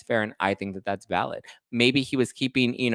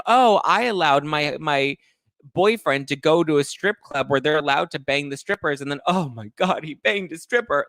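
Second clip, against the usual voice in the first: higher, louder sing-song mock innocence; mock naive girlfriend; 6 semitones higher, 3 dB louder than usual. Host mocks a naive girlfriend, higher mock shock. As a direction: play dumb and shocked. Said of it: "That's like being like".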